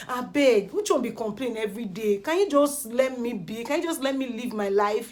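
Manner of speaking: imitated exasperated protest; frustrated plea. Kid worn out by daily complaints, frustrated. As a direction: plead to be left alone, fed up. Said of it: "you could see the frustration in his eyes".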